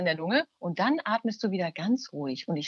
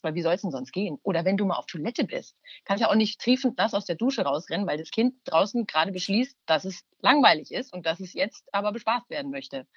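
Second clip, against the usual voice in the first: ordinary talk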